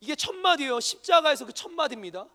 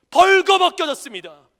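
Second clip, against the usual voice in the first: 벌거벗겨졌습니다 thundered out much louder, falling at the end; loud climax; 6 semitones higher, 13 dB louder than usual. Acted. Pastor proclaiming 벌거벗겨졌습니다 to the congregation, thundering. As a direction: hit 벌거벗겨졌습니다 with full force.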